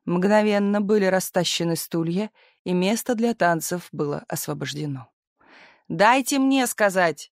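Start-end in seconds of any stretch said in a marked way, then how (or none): 5.9-7.3 high, slow plea; pleading to speak. A narrator's reading. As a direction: reach up and beg for the floor. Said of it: "попыталась стащить со стула".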